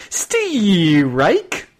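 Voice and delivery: high loud umpire call; umpire calling strikes. Pretend. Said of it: "you can almost hear him going".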